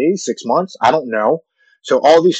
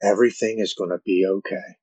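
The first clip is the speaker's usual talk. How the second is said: calming loving voice; 6 dB quieter than usual. Retold or imitated. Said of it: "a calming, loving voice".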